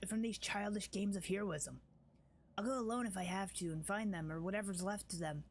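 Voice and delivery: lightly voiced fierce tribeswoman; character voice. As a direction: read it as a proud, wary warrior. Voicing Wenduag's dialogue.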